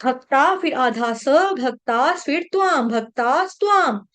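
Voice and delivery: "भक्ता", a half s, then "त्वाम"; broken up piece by piece. Shown as a demonstration. Teacher assembling the word for students, split "भक्ता" and "त्वाम". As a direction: build bhak-taas, tvaam in separate pieces. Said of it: "तोड़ तोड़ के पढ़ा दिया".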